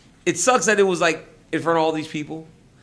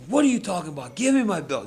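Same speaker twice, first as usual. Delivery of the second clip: higher-pitched retold demand; mock angry yell; 4 semitones higher than usual. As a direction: imitate a teammate's tantrum, only half raised. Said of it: "He's yelling, going crazy".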